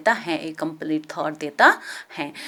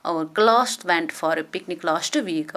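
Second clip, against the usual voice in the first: slow dictation; much slower than usual. Shown as a demonstration. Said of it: "rearrange करेंगे correct order में".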